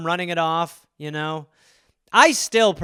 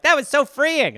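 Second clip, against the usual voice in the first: mock relief; 8 semitones higher than usual. Mocking relief after sliding.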